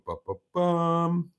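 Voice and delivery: half-sung bu-bu-bum while reading; idle bum-bum vocal filler. Real, not acted. Idly scanning through chat comments.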